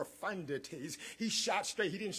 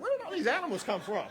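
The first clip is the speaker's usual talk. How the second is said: mock surprise; 8 semitones higher, 4 dB louder, faster than usual. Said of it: "Jessica gonna be like".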